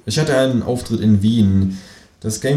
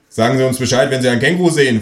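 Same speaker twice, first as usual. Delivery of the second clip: lightly voiced insistent officer, a bit louder; a hint of a pushy policeman; 5 semitones higher, 5 dB louder, faster than usual. Police at the door asking to come in, lightly voiced officer. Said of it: "fragt die Polizei".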